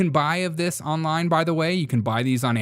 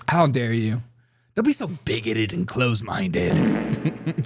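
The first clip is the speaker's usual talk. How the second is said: mock outrage; slower than usual. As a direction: act scandalized. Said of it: "total joke over police officer".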